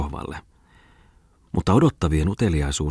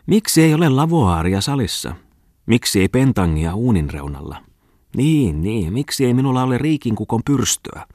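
higher-pitched, demanding wifely complaint; nagging wife; 6 semitones higher, 4 dB louder than usual. A narrator's reading. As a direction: whine about everything that is missing. Wife's nagging voiced in Muttinen's tirade. (nalkuttava vaimo)

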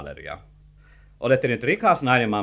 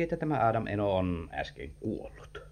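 hushed aside; 3 semitones lower, 7 dB quieter than usual. Acted. Confides the news in a hush.

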